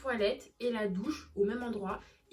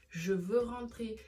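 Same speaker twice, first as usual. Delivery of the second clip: slow, drawn-out mock plea to go home; retold tearful plea; much slower than usual. Retelling a morning call to mother, slow pleading. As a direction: plead slowly, like a worn-out kid retelling it. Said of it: "je pleurais".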